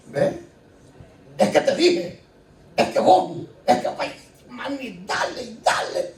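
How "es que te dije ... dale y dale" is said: higher, mock-pleading whine; whining complaint. Child complaining to mami, mock whining.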